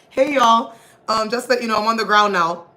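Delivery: sarcastic pretend check-in to followers; mock vlogger greeting. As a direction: play a chirpy livestream update as a joke. Mock vlogging while being trampled.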